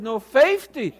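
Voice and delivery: mock-adamant Southern vowel, belted out; Southern dialect. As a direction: stubbornly insist on Southern "fifty". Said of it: "practicing the Southern dialect fifty".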